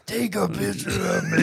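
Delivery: high shouted Arnold voice; angry Arnold. Retold or imitated. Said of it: "sound angry".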